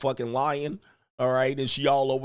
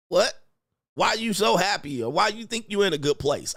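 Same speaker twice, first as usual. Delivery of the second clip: higher-pitched mock indignation; annoyed partner; 6 semitones higher than usual. Girlfriend questioning her happy man, mock annoyed. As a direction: challenge it as a put-out girlfriend. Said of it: "She'll be like".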